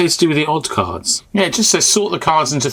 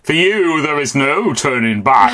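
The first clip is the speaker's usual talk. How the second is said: tinny voice; slower than usual. Retold or imitated. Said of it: "It's not scary if it's not tinny".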